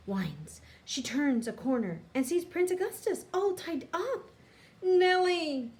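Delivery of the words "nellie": high, loud happy call of her name; shout. A narrator's reading. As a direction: call out to her across the cave. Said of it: "he shouts".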